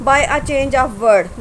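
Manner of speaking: very slow, each word set apart; dictating slowly. Shown as a demonstration. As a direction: read the heading out slowly for dictation. Teacher dictates the rule heading. (नोट्स के लिए बहुत धीरे बोलना)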